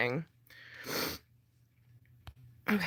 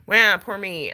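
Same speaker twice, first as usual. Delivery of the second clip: slightly raised, self-mocking cry; imitating your own crying, lightly hammed up; mock self-pity; 3 semitones higher, 4 dB louder, slower than usual. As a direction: make fun of your own pity party. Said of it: "like, crying on here".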